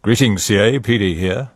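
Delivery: imitating Peter. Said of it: "and it was".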